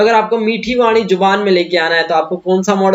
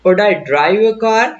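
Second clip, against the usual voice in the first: slow teaching example; much slower than usual. Shown as a demonstration. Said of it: "आपने कहा".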